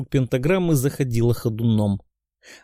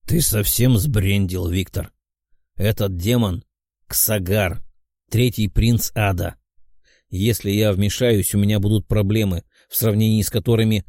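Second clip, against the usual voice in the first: fire demon; 4 semitones lower than usual. Acted. Demon answers the hero.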